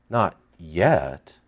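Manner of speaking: quiet. Shown as a demonstration.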